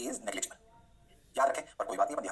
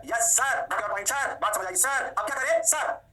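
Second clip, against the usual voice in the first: mock student reply; 5 semitones higher, 4 dB louder, much slower than usual. Teacher voicing eager students.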